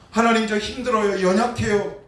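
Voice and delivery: high, loud pleading prayer cry; loud desperate plea; pleading cry to God. Acted. Preacher voicing a crying prayer.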